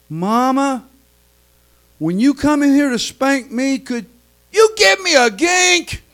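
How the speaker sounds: a hint of a small child, slyly sweet; sly little child. Child who smelt victory asking his mother for water. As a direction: coax it innocently. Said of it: "small, still voice of a child".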